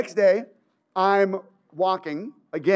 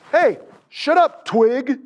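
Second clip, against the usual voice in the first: higher, slow jeer; bully teasing his skinny friend, mock jeer; 3 semitones higher, 4 dB louder, slower than usual.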